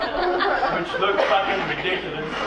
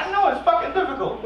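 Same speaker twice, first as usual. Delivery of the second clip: mock whiny reply; 8 semitones higher than usual. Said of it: "I was like".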